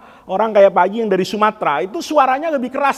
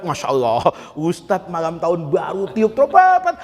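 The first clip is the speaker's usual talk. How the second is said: scandalized onlooker; 4 semitones lower than usual. Acted. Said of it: "Kalau Ustadz Suntilan ngeliat".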